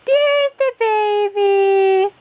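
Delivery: slow, loud, sing-song reveal; drawn out for a baby; peekaboo voice. Acted.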